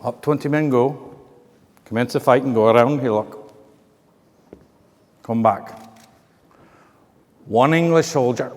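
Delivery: lightly put-on Scottish storyteller; Scottish accent. Telling how the soldiers fared, Scottish accent. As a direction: narrate in a mild Scottish brogue. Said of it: "with a Scottish accent".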